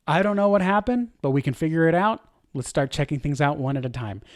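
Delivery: steady, settling down toward the end; a leader calmly reassuring the team mid-outage; calm and confident. Shown as a demonstration. Calm confident leader voice. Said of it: "You hear the difference?".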